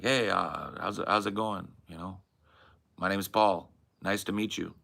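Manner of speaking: casual introduction with a hint of California Hispanic accent; Cali Hispanic accent. Shown as a demonstration. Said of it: "a general Hispanic accent".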